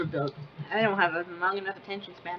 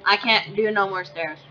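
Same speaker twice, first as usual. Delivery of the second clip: exasperated whine; 3 dB louder than usual. Real, not acted. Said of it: "Don't tell me there's more".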